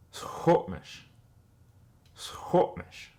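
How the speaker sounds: "Squamish" as "Shomish" with a breathy onset; final accurate version; full word. Shown as a demonstration. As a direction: land the full "Squamish" after the drill. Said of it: "the traditional or accurate way".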